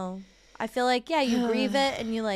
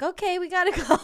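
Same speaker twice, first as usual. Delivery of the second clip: laughing sign-off; 10 semitones higher, 5 dB louder, faster than usual. Retold or imitated. Chaotic call ending.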